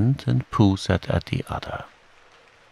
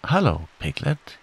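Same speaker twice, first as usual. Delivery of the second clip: higher little squeak; squeaky Roo; 7 semitones higher than usual. Acted. Roo greeting Piglet at the party, squeaky. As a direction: pipe it up like an excited joey. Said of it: "he squeaked".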